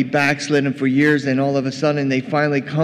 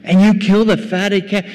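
high, loud accusation; acted indignant outburst; angry elder son; 5 semitones higher, 5 dB louder than usual. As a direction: throw it at the father in disbelief. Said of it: "He's angry".

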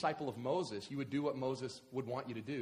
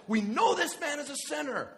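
high, loud accusing yell; 11 semitones higher, 8 dB louder than usual. Acted. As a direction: hurl it as an accusation. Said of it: "That's just yelling".

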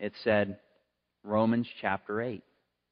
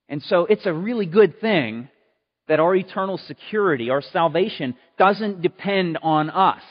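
louder, higher preaching, slowing on key words; 6 semitones higher, 6 dB louder than usual. Acted. Pastor to the congregation about God's love, preaching loud and high.

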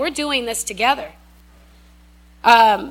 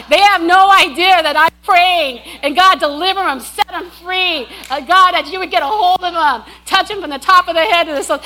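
lightly voiced fervent prayer, raised; quick whispered-style prayer; 5 semitones higher, 5 dB louder than usual. A hint of her passing prayer for the dorm men. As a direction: pray over them under her breath, eager. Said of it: "I'm praying like this".

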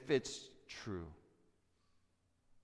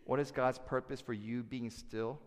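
normal talking voice

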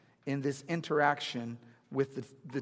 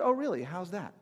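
surprised interest; 2 semitones higher than usual. Retold or imitated. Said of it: "And she said".

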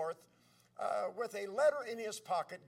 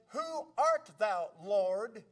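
slow, drawn-out wondering question to God; searching question; 3 dB louder, much slower than usual. Retold or imitated. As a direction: ask it slowly, raised, lifting on Lord. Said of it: "he asked that question that way".

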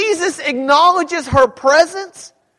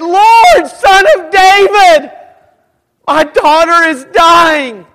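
desperate plea shouted much higher and louder; pleading shout, slowing on the last words; crying out; 5 semitones higher, 8 dB louder, slower than usual. Acted. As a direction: cry out to him for help. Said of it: "crying out".

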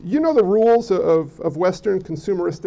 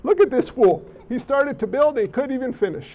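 condescending jeer at a fool; mocking; 3 semitones higher than usual. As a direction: scoff at the half-built tower. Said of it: "it's a mocking, condescending term".

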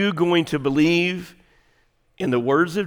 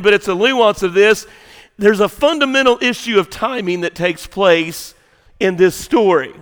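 raised, loud preacher's delivery; forceful preaching; 5 semitones higher, 6 dB louder than usual. Real, not acted. Preacher telling church what Jesus will do, forceful preaching. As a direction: preach it out, pitched up and driving.

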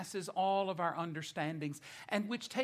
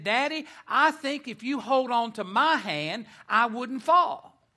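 louder, higher, lightly voiced little boy; small son, lightly voiced; 6 semitones higher, 10 dB louder than usual. Small son asks his dad for a hand, lightly voiced child. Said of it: "he looked at his dad and said".

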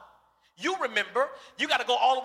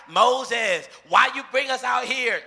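louder, complaining crowd yelling at Moses; mock yelling crowd; 6 dB louder, slower than usual. Israelites yelling at Moses, loud mock complaint. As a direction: shout it like a grumbling mob. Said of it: "are yelling at him".

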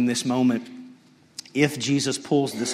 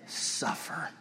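hushed reveal; 12 dB quieter than usual. Acted. Dramatic reveal of the answer.

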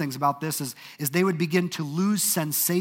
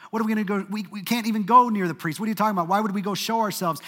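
higher, disbelieving objection; incredulous protest; 5 semitones higher, faster than usual. Retold or imitated. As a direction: push back like they can't believe the request. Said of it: "these guys are like".

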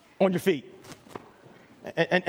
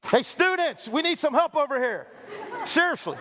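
calling out; 4 semitones higher than usual. Real, not acted. Calling students across the room for help.

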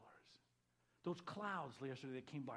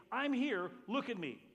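God calling out; 6 semitones higher, 8 dB louder than usual. Acted.

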